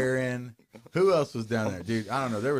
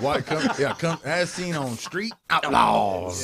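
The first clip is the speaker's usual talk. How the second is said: mock ad; 3 dB louder, slower than usual. Mock ad for a wannabe.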